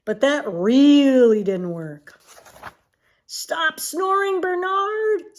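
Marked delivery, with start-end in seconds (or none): 3.3-5.4 high squeaky little elephant; baby elephant voice. Acted. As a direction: squeak it like a small calf. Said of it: "says the baby elephant".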